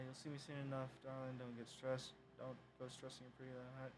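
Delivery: lightly put-on American Southern accent; mildly hammed-up Southern accent; bad southern accent. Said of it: "bad southern accent".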